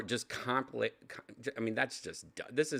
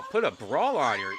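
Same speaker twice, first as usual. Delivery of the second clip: calls out at the screen, loud and teasing; mock yell at Grandma; 4 dB louder than usual. Real, not acted.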